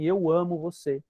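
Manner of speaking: slow, gentle declaration of love; tender demo. Shown as a demonstration. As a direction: say it slowly, looking in the child's eyes. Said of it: "diga assim". (declaração terna e devagar)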